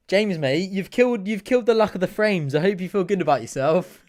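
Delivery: mock telling-off, pitch lifted; joking blame. Fan to James over the frames' luck, joking accusation. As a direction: playfully scold a mate for bad luck. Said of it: "No, I'm joking".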